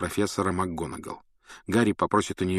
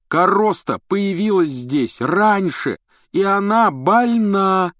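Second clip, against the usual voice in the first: furious shout; 11 semitones higher, 7 dB louder, slower than usual. A narrator's reading. Ron storming off furious.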